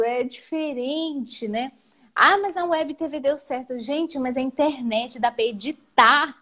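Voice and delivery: retold panic. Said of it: "Eu entrei em pânico, assim, eu chorei".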